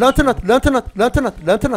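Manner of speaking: loud repeated urging; urgent calling. Real, not acted. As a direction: call it out fast.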